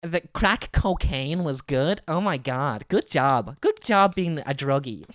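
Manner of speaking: slow, hammed-up American accent; mock American accent. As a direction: imitate an American handing out sarcastic praise. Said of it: "'cause Americans are like".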